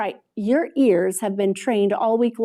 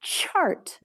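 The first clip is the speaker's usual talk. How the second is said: soft prompt; 4 semitones higher, 7 dB quieter than usual. Shown as a demonstration. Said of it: "What if I wanna change this to".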